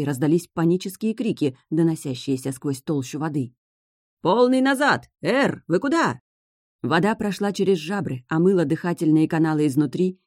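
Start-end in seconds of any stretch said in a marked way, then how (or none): 4.2-6.2 panicked. A narrator's reading. Panicked shouts from ship.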